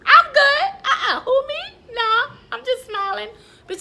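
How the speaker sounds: high, loud, near-breaking voice; spilling over with stress, loud and high; overwrought outburst. Real, not acted. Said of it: "Look at me looking dumb".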